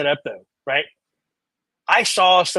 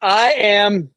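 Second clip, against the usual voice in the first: slow, lightly acted angry lady; hammed-up reporter intro; 2 semitones higher, slower than usual. Podcaster introducing her reenactment role, slow hammed-up delivery. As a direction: draw out a mock-grand self-introduction. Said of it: "personal reinterpretation".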